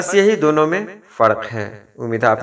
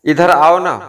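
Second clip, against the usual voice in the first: louder, loving call to come closer; affectionate request; 2 semitones higher, 5 dB louder than usual. Shown as a demonstration. Teacher showing a loving request to come over, affectionate. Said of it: "बड़े प्यार से ये बोला जा रहा है".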